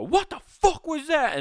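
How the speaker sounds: jolted out of relaxation by a flash; squealing what-was-that; startled outrage. Retold or imitated. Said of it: "they're gonna get up and go".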